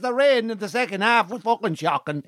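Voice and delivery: laid-on comic Navan accent. Shown as a demonstration. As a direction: moan about it in thick Navan. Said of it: "When I get to Navan after two days".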